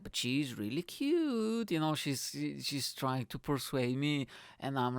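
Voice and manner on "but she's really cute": persuasive friend. Retold or imitated.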